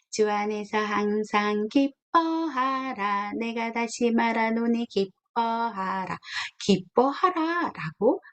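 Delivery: slow, solemn recitation of the verse; solemn Bible verse recitation; scripture reading. Acted. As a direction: read the verse slowly and weightily.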